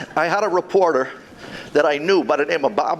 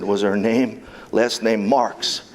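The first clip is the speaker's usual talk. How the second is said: slow, drawn-out, dramatic pause; mock psychic reading; slower than usual. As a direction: play the mystic divining a name. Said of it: "and then I rubbed my temples".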